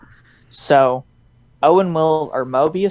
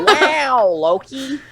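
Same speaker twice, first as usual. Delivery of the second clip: a hint of Owen Wilson's drawn wow, pitched up; lightly voiced Owen Wilson wow; 11 semitones higher, much slower than usual. Friend retells Mobius arriving through portal, a mild awed wow. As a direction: breathe out the wow in awe. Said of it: "you just hear".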